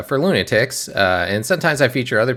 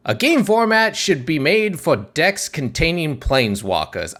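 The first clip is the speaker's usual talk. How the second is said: higher-pitched sideshow barker voice; carnival barker; 7 semitones higher than usual. Shown as a demonstration. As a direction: pitch it like a fairground announcer. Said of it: "I'm talking like a carnival barker".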